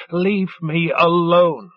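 slow hoarse croak. Acted. Worn-out lover croaking at partner, slowly. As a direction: let the voice go to a croak. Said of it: "her voice reduced to a croak".

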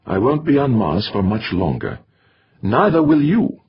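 lightly voiced accented mutter. A narrator's reading. Torok muttering back at the physician, accented. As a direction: shrug it off under the breath. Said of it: "shrugged instead and muttered".

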